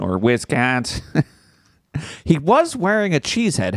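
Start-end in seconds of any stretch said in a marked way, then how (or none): 0.0-1.0 slow, drawn-out Wisconsin vowels; hammed-up Wisconsin twang; mock Wisconsin accent. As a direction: stretch it in a joking Wisconsin accent. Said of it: "like the accent of the cop".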